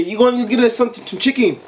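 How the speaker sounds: high, fast mock son's demand. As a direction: toss it off like a lazy teen asking. Voicing the son asking.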